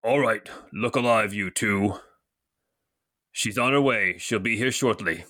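lightly voiced deep-voiced newcomer; a hint of a deep commanding figure. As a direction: put on a slightly deep voice. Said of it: "it's a very deep voice".

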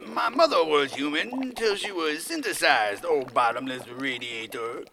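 loud, formal proclamation; hammed-up servile reply; theatrical declamation. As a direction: declaim it as a stage line. Dreamer declaims lines to tyrant.

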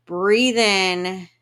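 big, loud inhale cue; loud noisy breath in. Shown as a demonstration. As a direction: breathe in loudly, noisily. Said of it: "Make the noisiest, loudest".

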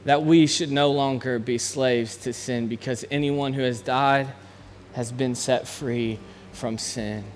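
measured, earnest reading of scripture. Acted. Pastor reading Romans to close in prayer, earnest. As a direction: read each verse with conviction.

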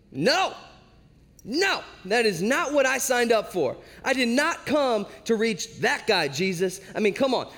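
high, emphatic mock protest; hammed-up "not what I signed up for" objection; indignant refusal. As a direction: balk in comic dismay, pitch jumping up. Disciples balk at the screaming man.

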